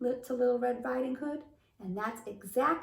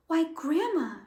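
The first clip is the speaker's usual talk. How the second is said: put-on little girl voice; 7 semitones higher, 5 dB louder than usual. Girl character voiced in the story.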